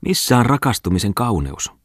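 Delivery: loud, high-pitched lament; plaintive cry. A narrator's reading. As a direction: exclaim in wailing disappointment. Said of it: "huudahti Muttinen valittavasti". (valittava huudahdus)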